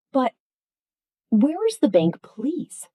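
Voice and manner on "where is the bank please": warmer. Shown as a demonstration. Teacher showing a warmer polite request. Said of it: "sounds warmer".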